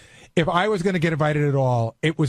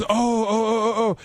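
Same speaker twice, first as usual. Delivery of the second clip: higher-pitched string of retold ohs; surprised Beth; 5 semitones higher, slower than usual. Imitating Beth learning he wasn't invited, surprised. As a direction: imitate a friend taken aback, voice lifted. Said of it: "Beth was really surprised".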